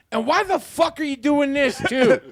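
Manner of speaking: laughing mock preacher. Vice pastor joining the sermon, laughing mock scolding. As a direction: play the vice pastor piling on. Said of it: "then I can come in and be like".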